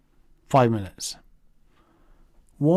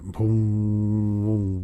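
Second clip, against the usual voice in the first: lightsaber boom impression; 5 semitones lower than usual. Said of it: "That's my sound impression of a lightsaber".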